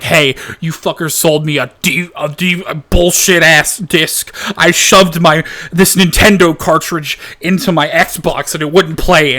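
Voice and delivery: imitating an angry customer, half-hammed; pissed-off customer. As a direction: storm in acting furious about the disc. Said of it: "super pissed off".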